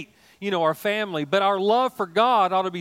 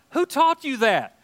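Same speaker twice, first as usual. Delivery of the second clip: higher, slow mock astonishment; surprised; 9 semitones higher, 6 dB louder, slower than usual. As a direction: act taken aback. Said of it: "I'm like".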